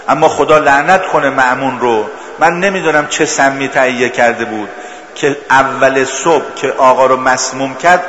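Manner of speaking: sermon building to a mournful cry; impassioned preaching. Acted. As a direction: plead to the imam with rising fervour. Preacher rises into impassioned supplication.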